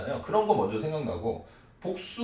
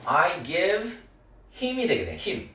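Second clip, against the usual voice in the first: slow drill; 5 semitones higher, much slower than usual. Shown as a demonstration. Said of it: "그에게도 줄 수 있잖아요".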